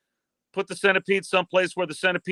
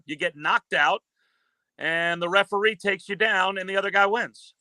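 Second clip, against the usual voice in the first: wrestling play-by-play. Acted. Calling a wrestling clip on request for the host, lively play-by-play. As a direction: call the match like a ringside announcer. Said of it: "Play by play this one here".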